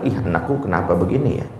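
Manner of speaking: put-on a weary mom wondering aloud why her kids won't behave; complaining mother. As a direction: grumble quietly about the children. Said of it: "kesalahan mendasar habis ikut kajian parenting adalah".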